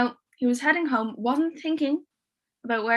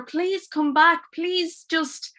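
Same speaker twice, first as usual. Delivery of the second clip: pleading; 5 semitones higher than usual. Acted. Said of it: "he started begging her".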